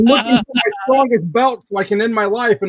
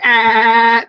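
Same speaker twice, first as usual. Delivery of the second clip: glitchy remix yell; 3 semitones higher, 6 dB louder than usual. Retold or imitated. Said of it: "doing that remix where it was like".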